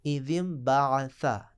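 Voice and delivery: इज़िम बाअसा said slowly with a th; teacher reads इज़िम बाअसा carefully; slow demo. Shown as a demonstration. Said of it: "हरूफ़ लसविया में से सा है".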